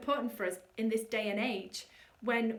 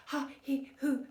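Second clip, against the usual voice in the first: shallow chest breath. Shown as a demonstration. Coach showing the wrong shallow breath. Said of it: "that's not quite what I'm looking for".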